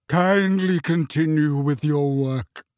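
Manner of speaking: slow, icy dismissal; wounded, curt. A narrator's reading. Trelawney dismissing the class, slow and cold. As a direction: cut the class off with dignity. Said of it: "cried Professor Trelawney".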